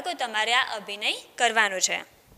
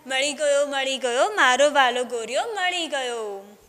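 overjoyed; 5 dB louder than usual. Acted. Farmer dancing, finds lost ox.

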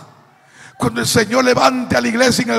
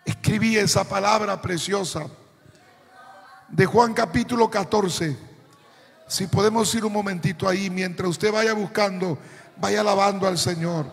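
quiet aside; 5 dB quieter than usual. Real, not acted. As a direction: drop the voice while they look up the passage. Pausa para buscar el pasaje. (aparte en voz baja)

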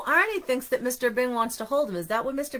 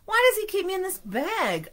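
donut character voice; 9 semitones higher than usual. Acted. Arnie's thought, character voice.

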